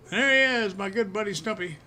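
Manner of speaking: light up as the dog appears; cheery call to a pet; excited greeting. Real, not acted.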